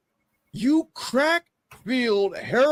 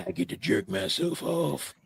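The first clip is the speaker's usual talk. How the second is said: mock answer; 12 semitones lower, 5 dB quieter, faster than usual. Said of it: "And his answer is".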